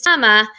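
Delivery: "comma" said alone after a pause, pushed a little; stressed word. Shown as a demonstration. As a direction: land on "comma" on its own. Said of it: "and I used".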